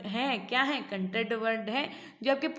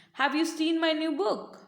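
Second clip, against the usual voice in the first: slow question with BOOK pitched up; stress on BOOK; 3 semitones higher, much slower than usual. Shown as a demonstration. Teacher demonstrating how stress changes meaning, stress on BOOK. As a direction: lean on the last word, book. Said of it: "repeated with different words".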